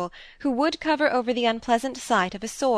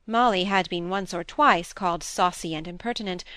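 plain reading voice

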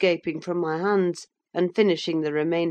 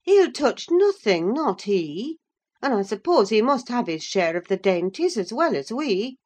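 put-on higher, earnest plea for the boy; pleading defence; 6 semitones higher, 4 dB louder than usual. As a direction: argue gently for him.

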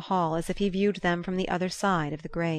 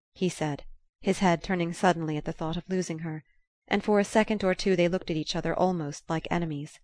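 plain reading voice

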